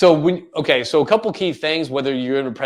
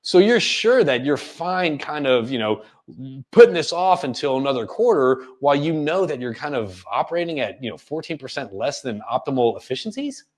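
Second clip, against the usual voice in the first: puzzled questioning, rising at the end; role-played confusion, as if it doesn't add up; confused tone. Shown as a demonstration. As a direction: question it doubtfully, ending on a rise. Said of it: "the confusion tone that I'm doing".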